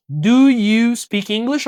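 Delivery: slow demo with the end lifting a little; careful teacher question; slow model question. Shown as a demonstration. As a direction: say it slowly as the correct form. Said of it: "Ao invés de só dizer you speak English".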